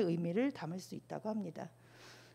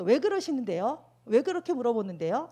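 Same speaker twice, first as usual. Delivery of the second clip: defensive; 5 dB louder than usual. Shown as a demonstration. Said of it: "이렇게 했을 때는".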